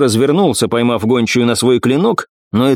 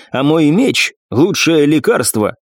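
grim smile; 3 semitones higher, slower than usual. Acted. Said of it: "мрачно улыбнулась Ирис".

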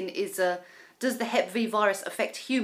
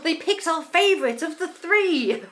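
dismayed; 7 semitones higher, 5 dB louder than usual. Real, not acted. Dismay at favourite's fate.

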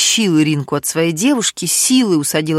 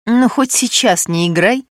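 shouted; 4 semitones higher than usual. Acted. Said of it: "крикнула Ирина".

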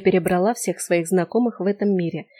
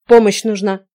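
urgent cry; 8 dB louder than usual. A narrator's reading. Urgent plea to old woman.

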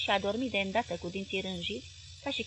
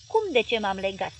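louder, mild furious sputter; furious splutter; 5 dB louder than usual. Acted. Husband sputtering back at his wife, mildly furious. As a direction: splutter it out in anger. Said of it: "bolborosi el furios".

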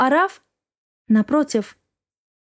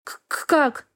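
stuttered, softer gasp of disbelief; stammering shock; 3 semitones higher, 4 dB quieter, slower than usual. Acted. Wife stammering at her husband in shock. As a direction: stumble over the first sound, shaken.

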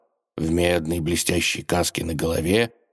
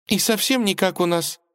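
put-on lightly drooping, disappointed girl; a touch of deflated; 13 semitones higher than usual. A narrator's reading. Princess let down by a plain crow, a touch of deflated. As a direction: let the wonder go out of it a little. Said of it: "сникла царевна".

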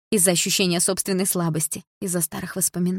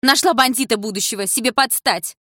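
much higher, louder indignant woman; outraged scolding; 6 semitones higher, 4 dB louder than usual. A narrator's reading. The woman scolds Дилара for rudeness, high and loud. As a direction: shriek at the rude girl.

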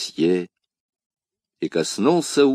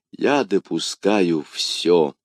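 suppressed anguish; 4 semitones lower, much slower than usual. Acted.

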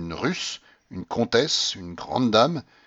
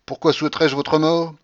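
a touch higher, polite protest; tutor protesting; 7 semitones higher, 5 dB louder than usual. A narrator's reading. Tutor answering the grandmother, lightly voiced polite protest. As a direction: gently object to the old lady.

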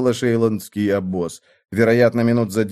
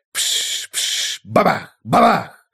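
imitated crackling bangs; 4 semitones higher, much slower than usual. A narrator's reading. Firework bursts imitated.

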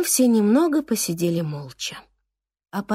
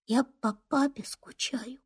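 whispered confession; 3 semitones higher, 8 dB quieter than usual. Acted. Boy confesses missing his dad.

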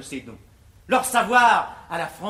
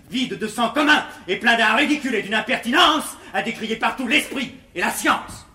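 angry tirade; 3 semitones higher, 5 dB louder than usual. Acted. Angry tirade against pedant scholars.

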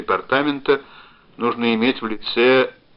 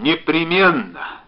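high, loud, deliberate delivery; urgent, slowed raised voice; calling out; 7 semitones higher, 7 dB louder, slower than usual. A narrator's reading. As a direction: shout so the far end can hear. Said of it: "крикнул он".

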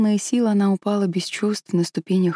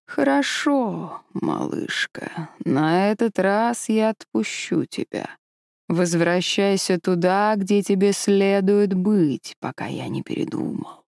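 slow, yawning dragon voice, fading to a whisper; drowsy dragon, let it trail off; sleepy snoring dragon; slower than usual. Acted. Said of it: "зевнул и покачал головой". (сонный зевающий дракон)

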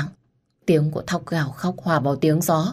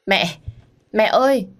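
sobbing cry; 6 semitones higher, 4 dB louder, slower than usual. A narrator's reading. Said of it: "gào lên nức nở".

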